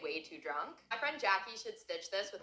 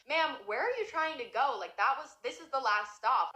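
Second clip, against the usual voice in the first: a lightly higher, puzzled driver's question; bus driver voice; 5 semitones higher than usual. Retold or imitated. Bus driver asking the drunk passenger, lightly voiced higher. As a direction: ask it as the confused driver would.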